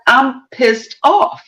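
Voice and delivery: slow, even, matter-of-fact complaint; calm and cool. Retold or imitated. Retelling a livid woman's composed words at court, slow and calm. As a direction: say you're furious without raising your voice. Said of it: "And that's how she said it".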